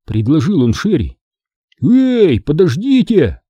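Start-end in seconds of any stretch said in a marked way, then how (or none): 1.8-3.4 high, hurried protest. A narrator's reading. Chicken protests as Greg grabs him, high protest. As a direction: cry out in protest. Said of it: "запротестовал Цыпа".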